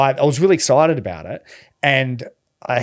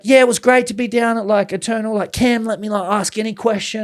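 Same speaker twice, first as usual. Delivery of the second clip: raised, bubbly, quick gush; gushing, overexcited; 6 semitones higher, faster than usual. Retold or imitated. On a breakdown show, overexcited about Eternal. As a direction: mimic how he gushed on the show. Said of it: "I was probably, like, a little too excited".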